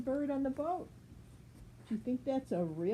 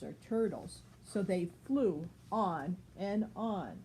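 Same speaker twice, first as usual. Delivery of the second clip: put-on clear, even read-aloud voice for a child; storybook reading. A narrator's reading. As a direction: read it like a bedtime picture book. Reads picture book to child.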